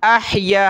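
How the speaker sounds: अहया with a breathy throat ह; tajweed haa demo; clear haa. Shown as a demonstration. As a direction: push the ह from the throat. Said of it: "हा निकालें".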